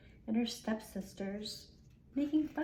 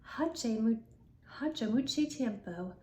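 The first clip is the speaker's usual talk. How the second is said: self-admitted bad Spanish accent; slower than usual. Shown as a demonstration. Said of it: "I have a very bad Spanish accent, but I'm going to try".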